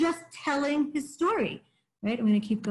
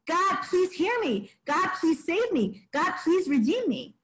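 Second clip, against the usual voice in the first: pleading prayer; 5 semitones higher than usual. Retold or imitated. Teacher voices the psalmist praying to God, pleading. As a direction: plead it as a prayer, drawing out each request. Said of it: "is this still part of the prayer".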